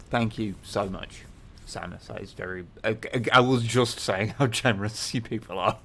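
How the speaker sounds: talking with mouth full; words round a mouthful of egg. Real, not acted. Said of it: "I've got an egg in my mouth".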